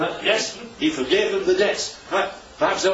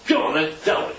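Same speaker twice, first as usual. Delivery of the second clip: offhand. Retold or imitated. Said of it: "a bit offhandish".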